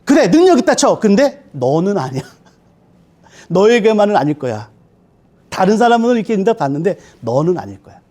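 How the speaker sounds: a hint of a taunting tempter; Satan taunting. Satan whispering doubt to a praying believer, light mock taunt. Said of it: "사단이 이렇게 역사합니다".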